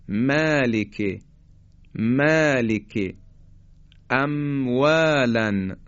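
very slow, drawn-out «مالک», M made on the outer lips; lengthened recitation-style demo of M in «مالک»; dry-lip M. Shown as a demonstration. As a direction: close the dry part of the lips for «م» in «اموالن». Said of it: "از قسمت خشکی لبها حرف میم".

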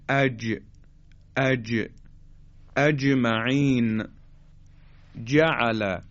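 firm j in "اج، اجمعین، جعل"; jim articulation. Shown as a demonstration. Teacher demonstrates how jim is pronounced, firm j. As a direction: press the middle tongue to the palate for "اج".

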